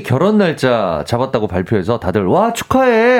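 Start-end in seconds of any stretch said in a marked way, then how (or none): 2.3-3.2 high, drawn-out group-style congrats; acted burst of congratulation; cheering congratulations. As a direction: call it out like a delighted friend. Acting group congratulating a friend.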